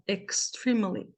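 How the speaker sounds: "extremely" slowly, first E short, "eks-TREEM-uh-lee"; slow pronunciation model. Shown as a demonstration. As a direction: draw out "extremely" with a long I in the stressed syllable. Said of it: "esse segundo E tem um som de A".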